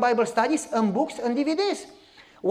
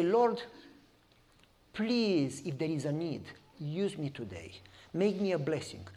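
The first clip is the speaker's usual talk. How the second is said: hushed prayer; 5 semitones lower, 10 dB quieter than usual. Pretend. Preacher voices a quiet car prayer.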